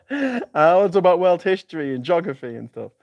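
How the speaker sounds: giggling through the list; sheepish chuckle at dodging politics; laughing. Real, not acted. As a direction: laugh as you rattle off the topics. Jokey topic list.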